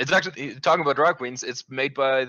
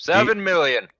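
excited; 9 semitones higher, 7 dB louder than usual. Real, not acted. Bold guess of a big number.

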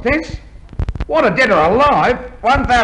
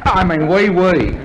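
hasty fake French correction; mock French accent. Fake fencer covering his slip to an inspector, mock French accent. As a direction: slip back into phoney French. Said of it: "with a French accent".

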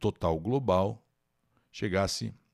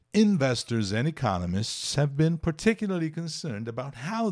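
reading the English news paragraph aloud. Acted. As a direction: read it like a news item, steady. Reads English news text aloud. (leitura de notícia em inglês)

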